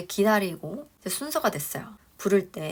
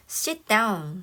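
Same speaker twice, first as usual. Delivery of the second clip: rude command; 3 semitones higher, 3 dB louder than usual. Shown as a demonstration. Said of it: "되게 예의 없이 들릴 수 있습니다".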